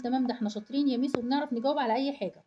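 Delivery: mock kids boasting. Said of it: "أنا سامعة ناس بتقول".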